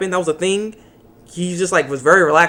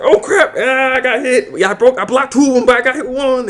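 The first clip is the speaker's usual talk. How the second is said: higher, laughing through a hit; laughing mock pain; 8 semitones higher, 3 dB louder than usual. Villain reacting to being shot, laughing and higher. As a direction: giggle out the complaint. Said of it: "and Perseus like".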